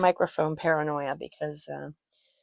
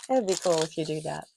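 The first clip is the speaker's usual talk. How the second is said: laughing whisper. Real, not acted. Joking plug for sister's channel.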